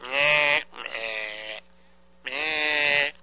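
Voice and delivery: nasal meh meh beeps; imitated busy signal. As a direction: mimic a broken busy tone. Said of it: "This was like".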